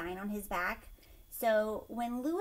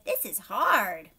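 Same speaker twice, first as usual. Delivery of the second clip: slow, loud, worn out; slow weary complaint; tired sigh; 2 semitones lower, 7 dB louder, slower than usual. A narrator's reading. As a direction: drag it out exhausted. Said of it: "Woo, Gilbert said".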